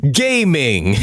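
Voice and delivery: Gaming said like the English word, GAY-ming; English-word pronunciation. Real, not acted. Host announcing the next character's name, Gaming mispronounced as GAY-ming. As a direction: say Gaming with a long "ay". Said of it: "I know that's not how".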